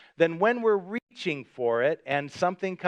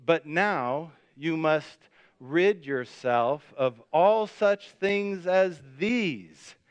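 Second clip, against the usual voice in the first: slow group recitation; much slower than usual. Shown as a demonstration. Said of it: "would you say it with me".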